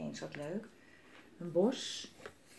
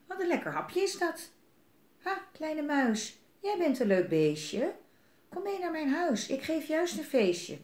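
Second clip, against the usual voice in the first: sly snake; 7 semitones higher than usual. Acted. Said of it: "Slang zag hem en die dacht".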